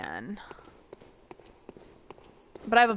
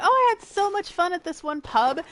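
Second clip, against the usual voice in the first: higher-pitched, gushing imitation of an aunt; retold gushing; 8 semitones higher, 3 dB louder than usual. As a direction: act out an aunt raving about a night out. Retelling aunt's gushing words.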